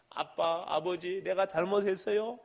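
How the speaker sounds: quiet, humble apology to a father; soft plea. Acted. Preacher voicing a repentant child to his father, quietly. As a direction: say it softly like a child sorry.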